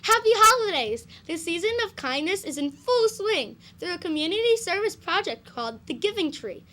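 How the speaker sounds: loud, cheery holiday announcer; excited and loud. Real, not acted. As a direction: sell it with big festive energy. Upbeat holiday announcement to students.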